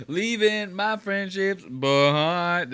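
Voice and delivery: slow, high, wistful trailer-narrator voice; dramatic slow voiceover. Pretend. Mocking his friend with a slow dramatic movie line. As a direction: draw it out like a sad movie trailer. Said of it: "I wanna hear that again".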